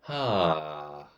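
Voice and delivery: long open "ha" sliding down; relaxed sighing exhale. Shown as a demonstration. Coach demonstrating a throat-relaxing exercise, relaxed voiced sigh. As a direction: let air fall through a relaxed throat. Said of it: "relax your throat and let air come through".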